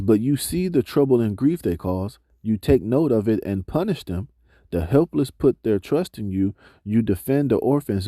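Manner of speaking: scripture reading. Acted. Reads scripture passage aloud.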